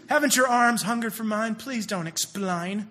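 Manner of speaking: mock London street-urchin accent, slowing at the end; a touch of old London accent. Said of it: "she says in her old accent".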